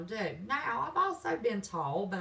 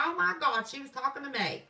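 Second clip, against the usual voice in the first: mocking accuser; 5 semitones higher, 4 dB louder than usual. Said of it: "point a finger and go".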